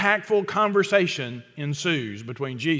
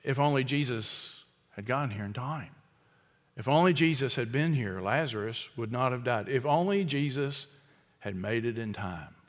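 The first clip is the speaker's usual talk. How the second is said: softer, sinking sighs of regret; mournful lament; 4 semitones lower, 7 dB quieter than usual. Retold or imitated. Pastor voicing the grieving household's refrain, mournful lament. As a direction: let each if only fall in grief. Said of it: "the common refrain in the household".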